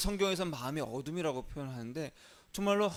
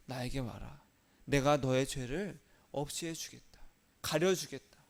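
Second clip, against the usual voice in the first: softer, lower gentle voice of Jesus; Jesus answering; 3 semitones lower, 4 dB quieter than usual. Pretend. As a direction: answer like a calm, forgiving Lord, hushed. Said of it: "예수님께서 뭐라고 하셨냐".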